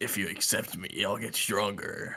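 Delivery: put-on, attempted demonic voice. Asked what they sound like, speaker imitates what the demon told him: demon voice impression. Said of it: "that's my best impression".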